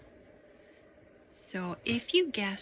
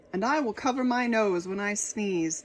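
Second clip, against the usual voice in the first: a hint of big dragon voice; lightly voiced dragon; 6 dB louder than usual. Dragon promising the king, lightly voiced dragon. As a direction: promise like a friendly beast.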